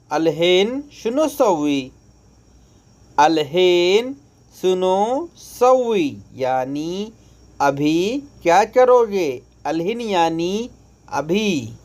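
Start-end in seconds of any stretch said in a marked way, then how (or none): none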